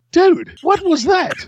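a high, slow, stunned "what was that"; shocked coworker. Retold or imitated. Coworker Glenn stunned, asking what just happened. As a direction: drag it out like a baffled friend.

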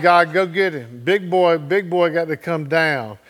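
retold prayer, with a laugh; laughing wife's prayer. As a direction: laugh through the words "go get him". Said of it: "She said".

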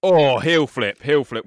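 loud, drawn-out oh, then heel flip; excited call-out. Real, not acted. Skate podcaster reacts to a heel flip, excited and loud. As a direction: shout it as you see the trick land.

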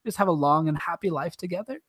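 a hint of Edward's accent, softly pleading. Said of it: "awesome accent that he has the whole movie".

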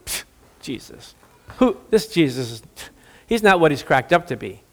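muttered, scornful scoff. Pretend. Offended woman scoffs at Jesus, muttered scorn. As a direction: brush him off under your breath.

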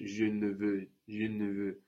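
"ne" swallowed into "Je ne veux", nearly "zhuhn-vuh". Shown as a demonstration. Teacher showing spoken French, "ne" swallowed up. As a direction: reduce the "ne" in "je ne veux" to a quick, quiet n. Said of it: "very easily swallowed up in French".

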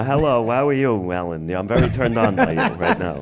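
lightly voiced old Jewish man. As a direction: put on a hint of an old Jewish man's accent. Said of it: "an old Jewish man talking to".

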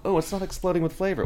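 mock a fussy diner; mock whiny diner. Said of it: "you know".

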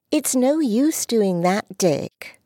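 put-on a proud little girl who won't be put off; high young girl's voice, insistent; little girl Dulcie.

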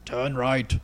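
put-on half-hearted Austrian action-star accent; Arnold Schwarzenegger. App voice giving a driver directions, half-hearted Schwarzenegger impression. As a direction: lightly attempt a bad celebrity imitation. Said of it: "can't do an Arnold Schwarzenegger impression".

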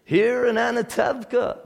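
first try at Tevye's Yiddish-inflected "Here in Anatevka"; a light first take of Tevye's accent. Retold or imitated. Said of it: "I'm gonna do the accent".

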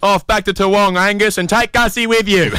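imitating the Serbian man. Serbian fan heckling the player off the pitch, mock loud heckle. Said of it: "the guy goes".

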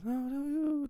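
mock falsetto woman's voice; man faking a girl's voice. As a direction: squeak it out like a man playing a girl. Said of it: "She has this, like, guy's voice".

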